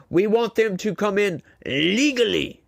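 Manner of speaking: a self-admittedly weak stab at Trump's voice; half-hearted imitation of a politician; Donald Trump impression. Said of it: "that's my best Trump impression".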